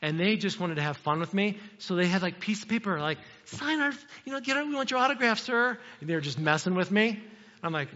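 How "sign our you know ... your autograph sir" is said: put-on higher, playful kids begging for an autograph; mock teasing kids. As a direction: tease him like kids wanting a signature.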